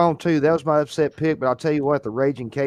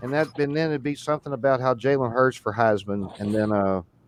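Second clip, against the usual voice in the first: usual speaking voice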